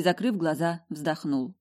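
ordinary delivery

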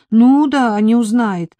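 high, loud scoffing echo; sceptical retort. A narrator's reading. Marika doubting her employer won't notice, sceptical retort. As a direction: throw it back in disbelief.

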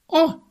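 a sudden shrill high squeal of surprise; О! shot up into a piercing squeal. Shown as a demonstration. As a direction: squeal the О! way up high like a startled girl. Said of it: "Она же взвизгнула".

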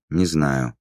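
a touch of dejection; crestfallen. A narrator's reading. Demon answers Taala's question about the monster, mildly crestfallen. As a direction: admit it with mild contrition. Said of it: "добилась она лишь сокрушённого".

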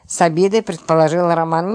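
plain reading voice

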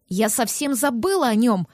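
plain reading voice

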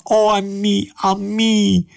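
high-pitched lament; wailing. A narrator's reading. Lady wails for her dog.

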